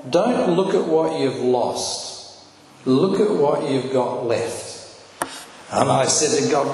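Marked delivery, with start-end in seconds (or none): 0.1-4.7 slow reading. Shown as a demonstration. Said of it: "and it said".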